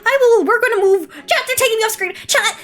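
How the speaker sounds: laughing. Real, not acted. Streamer dragged off screen, laughing.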